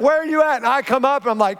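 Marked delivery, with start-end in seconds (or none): 0.0-0.6 higher, urgent call across the water; wife calling for her husband underwater. Retold or imitated. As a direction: call out, searching for him. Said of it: "she's like".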